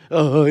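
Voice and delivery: short mock sobs; imitated sobbing. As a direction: imitate gasping sobs while collapsed. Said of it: "이렇게 울고 있는데". (흐느끼는 소리 흉내)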